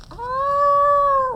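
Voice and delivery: high startled ah; surprised ah. Real, not acted. Storyteller reacting to children: high surprised ah. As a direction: gasp as Bear nearly gets him. Gasp at near catch.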